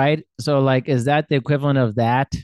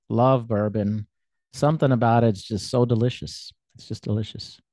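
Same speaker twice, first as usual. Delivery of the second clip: dreamy, wistful fondness; 3 semitones lower than usual. Real, not acted. Bourbon lover reminiscing about a favorite drink, wistful. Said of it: "You got re-, really wistful then".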